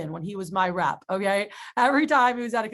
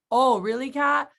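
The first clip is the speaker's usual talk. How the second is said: imitating an eager, higher-pitched reaction; excited; 4 semitones higher, 4 dB louder, slower than usual. Rep on phone with manager, acting excited. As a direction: play up surprise for the listening customer. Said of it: "get excited in front of the customer".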